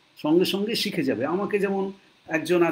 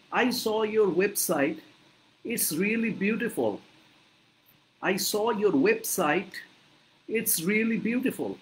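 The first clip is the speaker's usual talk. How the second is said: drawn-out, word-by-word English line; very slow model sentence; 3 semitones higher, much slower than usual. Shown as a demonstration. Teacher demonstrating the customer's compliment, very slowly. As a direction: stretch every word so learners catch it. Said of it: "বারবার করে প্রনাউন্সিয়েশনের কথা বলছি".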